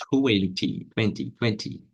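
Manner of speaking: "twenty" with clear middle t; teacher models full-t "twenty"; with T sound. Shown as a demonstration. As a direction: tap the t in "twenty". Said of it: "Com o som de T aqui".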